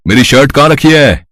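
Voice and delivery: impatient household shout, mildly done; calling out. Acted. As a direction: call through the house for someone. Calling for Ritu across house.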